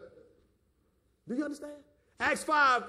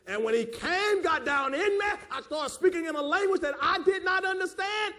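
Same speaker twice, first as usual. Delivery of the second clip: raised, higher-pitched testimony; impassioned church testimony; fervent preaching; 7 semitones higher, 4 dB louder than usual. Real, not acted. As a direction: preach it with rising fervor. Preaches at full force.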